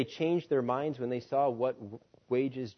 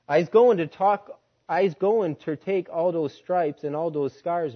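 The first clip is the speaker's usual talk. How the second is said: fervent vow; 4 semitones higher, 6 dB louder than usual. Acted. Jack's defiant testimony to master.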